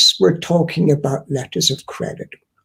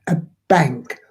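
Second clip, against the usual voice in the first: "bank" said firmly, then a break; "bank" set apart for emphasis; stress on BANK; 2 semitones lower than usual. Shown as a demonstration. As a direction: land on the word "bank". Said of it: "I stress the word bank".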